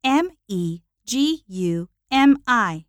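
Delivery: letter by letter, each one separate; spelling it out. Real, not acted. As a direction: spell out the name clearly. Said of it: "My first name is spelled".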